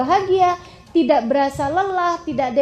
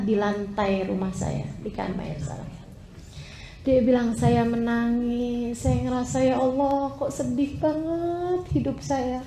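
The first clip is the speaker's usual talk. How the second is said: a hint of a grieving friend; retold sad confession; 4 semitones lower, 4 dB quieter than usual. Friend confessing her lonely nights to the preacher, soft and low.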